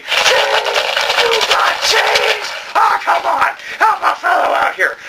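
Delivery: Prickly Bum begging. Acted. Prickly Bum begging passersby, high and shouting. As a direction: holler for spare change. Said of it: "the prickly bum saying".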